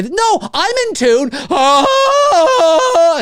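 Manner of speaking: high loud off-key belt; mock tone-deaf singer. Mimicking a tone-deaf fan singing along, loud belt. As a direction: belt it like a bad karaoke singer.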